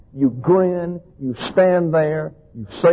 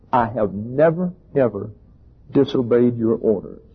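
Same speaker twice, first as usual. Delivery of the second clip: self-righteous tone; 3 semitones lower than usual. Acted. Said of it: "a self-righteous tone".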